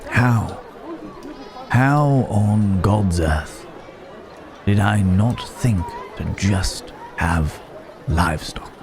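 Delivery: slow, drawn-out disbelief at oneself; mild self-reproach. Acted. Berating oneself for missing the livestock idea, slow mild disbelief. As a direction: marvel slowly, spacing out the words. Marvels at own oversight.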